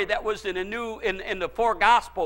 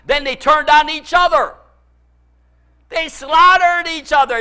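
raised, higher preaching voice; impassioned preaching; 4 semitones higher, 6 dB louder than usual. Real, not acted. Preacher recounting a battle to the congregation, impassioned preaching. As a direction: preach it up, intense and driving.

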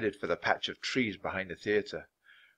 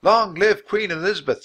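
put-on high, loud children's cheer; loud, high excited children's cheer; excited shout; 10 semitones higher, 8 dB louder than usual. A narrator's reading. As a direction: cry it out with eager joy. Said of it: "shouted Jack and Annie".

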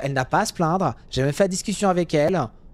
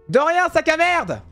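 high, slow, drawn-out sneering jeer; mock thanks dripping with contempt; sarcastic insult; 11 semitones higher, 3 dB louder, slower than usual. Real, not acted. Taxi driver insulting a reckless driver, sarcastic.

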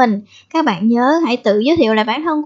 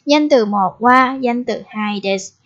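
slow pattern drill. Shown as a demonstration. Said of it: "đọc là wa".

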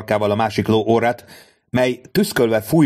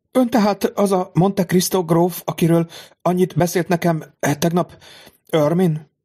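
astonished lady; 8 semitones higher than usual. A narrator's reading. Mother realizes she speaks to Monte Cristo, amazed. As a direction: realize who he is with awe.

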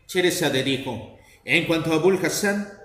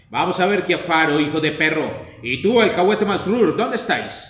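shouting; 4 dB louder than usual. Acted. Abul Hassan shouts for his servants, loud. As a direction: bellow for the missing servants. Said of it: "se puso a gritar con todas sus fuerzas".

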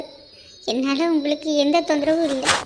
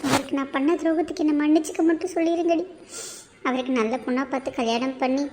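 tearful farewell; 3 dB quieter than usual. Acted. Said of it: "அழுகிறது நிறுத்து".

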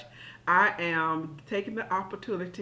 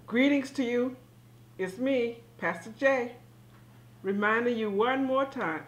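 talking around a pencil held in the mouth; 2 semitones higher than usual. Real, not acted. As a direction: speak with a pencil between the teeth. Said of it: "why do I have this pencil in my mouth?".

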